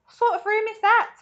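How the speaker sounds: high, loud, incredulous wondering; baffled question. A narrator's reading. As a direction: ask in utter bafflement. Charlie's baffled thought.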